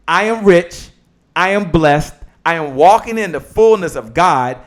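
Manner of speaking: deliberate, emphatic read with stretched key words; declaration. Real, not acted. Host reading the declaration for viewers, emphatic. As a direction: proclaim each affirmation firmly, one at a time.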